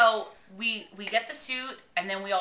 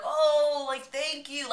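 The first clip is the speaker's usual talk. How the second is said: heartfelt thanks; 6 semitones higher, much slower than usual. Retold or imitated. Swimmer thanking fans for a present, heartfelt. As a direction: imitate someone moved by a gift. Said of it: "like, from the heart".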